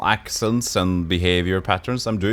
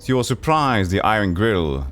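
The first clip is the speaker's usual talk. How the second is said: game narration. Acted. Game master describing a fire creature to the player.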